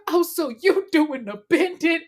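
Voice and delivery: high, loud taunting accuser; mocking a singer. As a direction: throw the accusation, sassy. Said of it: "She said".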